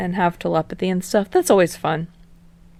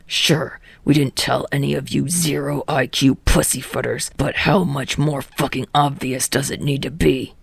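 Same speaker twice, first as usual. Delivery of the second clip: gruff ranting voice; 5 semitones lower than usual. Acted. Bakugo ranting at friends.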